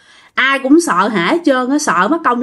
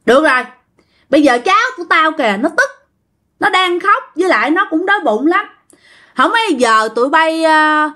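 raised-pitch plea for a grandchild; relenting old ghost; 6 semitones higher than usual. Retold or imitated. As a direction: give orders as a softened old spirit. Ghost relents, asks food for grandchild. (giọng ông già ma nguôi giận, cao, dặn dò)

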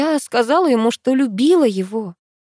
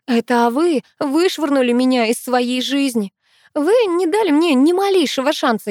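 raised accusing voice. Acted. Penny accuses him, raising voice.

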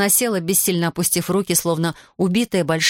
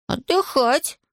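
put-on boy's suggestion; 8 semitones higher, much slower than usual. A narrator's reading. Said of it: "Ivan's reply".

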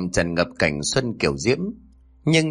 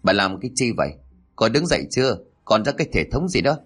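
stern shout; faster than usual. Acted. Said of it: "tiếng quát".

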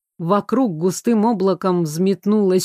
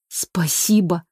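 breathed out; 3 semitones lower, slower than usual. Acted. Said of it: "выдохнул".

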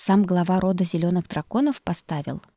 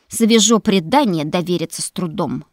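distrustful snort; 5 dB louder than usual. Acted. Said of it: "недоверчиво фыркнула Мэгги".

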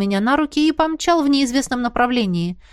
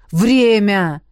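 loud, curt impatient call; impatient reminder; 5 dB louder than usual. A narrator's reading. Artega impatiently reminding the dragoness of the time. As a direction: hurry them along. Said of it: "нетерпеливо напомнил Артега".

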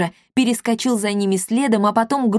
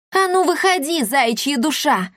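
angry shout; 6 semitones higher than usual. A narrator's reading. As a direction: call out the coward. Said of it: "крикнула Дарина". (громкий сердитый окрик)

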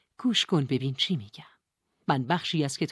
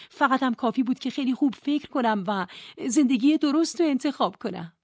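higher and louder, indignant; Nora protesting; 7 semitones higher, 5 dB louder than usual. Acted. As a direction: throw her own words back at her.

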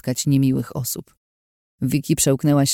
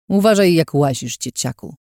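grumbled. Acted. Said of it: "burknął".

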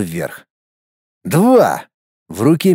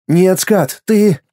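put-on higher, brighter boy voice, glad; a boy cheering for his friend, pitched higher; boy's inner voice; 5 semitones higher, much slower than usual. Inner boy congratulating Skat, higher and happy. Голос мальчика.

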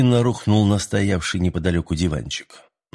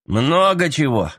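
snapping; 6 semitones higher, slower than usual. A narrator's reading. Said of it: "огрызнулся тот".

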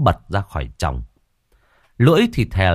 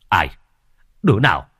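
sharp, louder demand into the dark; startled challenge; 4 dB louder, faster than usual. Acted. Brother hearing a laugh, startled louder challenge. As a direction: call out tense and challenging.

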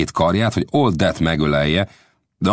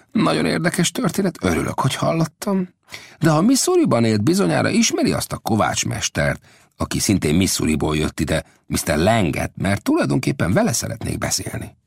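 put-on higher, sly old scout voice; an old scout feeling his way, pitched up; Old Death's voice; 7 semitones higher than usual. Old Death asks Lang's son about the smith.

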